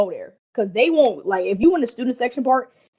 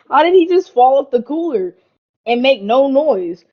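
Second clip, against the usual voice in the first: laughing through the words, higher and louder, slowing at the end; laughing disbelief; 4 semitones higher, 4 dB louder than usual. Real, not acted. Laughing to friends about Ricky falling off the cooler. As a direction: crack up at how he fell without a sound.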